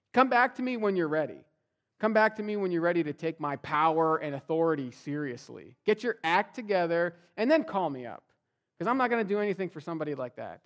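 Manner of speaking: a pretend harsh Jesus turning the man away; mock stern rebuke. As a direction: scold him like a fed-up boss. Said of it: "Jesus didn't look at this man and go".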